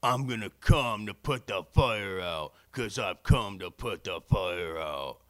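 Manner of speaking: loud slow mock line. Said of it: "I would have been like".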